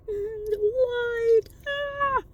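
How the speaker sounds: sudden high startled cry; startled yelp. Real, not acted. Turning on his light in the dark car, a high startled yelp.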